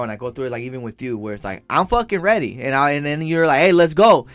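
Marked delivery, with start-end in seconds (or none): 1.7-2.6 louder, higher mock irritation; impatient complaint. Acts out his impatient complaint. 3.6-4.2 loud, raised-pitch mock summons; imitated hurrying call. Acts out listener hurrying him.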